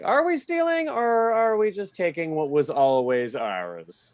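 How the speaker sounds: lightly voiced cocky crew; a hint of smug bravado; confident thieves. Stand-up retelling a construction crew with mild smugness. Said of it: "we had the confidence of like".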